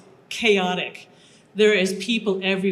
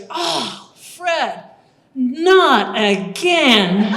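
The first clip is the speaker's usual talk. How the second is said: higher, then louder and very slow; a hint of a weary guard; 4 semitones higher, 7 dB louder, much slower than usual. Guard speaking to a colleague, lightly mock weary. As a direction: sigh it out, mildly fed up. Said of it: "she turns around and she goes".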